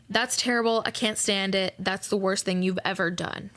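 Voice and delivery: lightly voiced upset parent; a hint of a dramatic, upset parent; mock awfulizing parent. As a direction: toss it off like an overreacting parent. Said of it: "awfulizing is to say something like".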